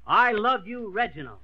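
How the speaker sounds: rising love line, dropping on the name; model line reading. Shown as a demonstration. Drama coach models a line for his pupil, dramatic. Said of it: "repeat these words after me".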